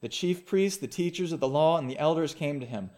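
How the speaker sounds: measured Bible reading to the congregation; scripture reading. Acted. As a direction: read the passage steadily and clearly. Reads the Gospel passage aloud.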